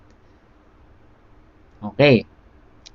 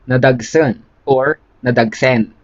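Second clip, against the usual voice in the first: slow teaching repeat. Shown as a demonstration. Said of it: "slow repeat for learners".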